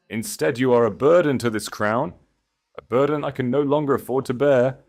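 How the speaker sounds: stern husband's cold verdict; harsh condemnation. A narrator's reading. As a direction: crush her with each word. Husband condemns wife angrily.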